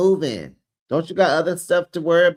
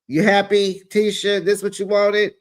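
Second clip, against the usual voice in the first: taunting; 5 semitones higher, 4 dB louder than usual. Real, not acted. Taunting Tisha.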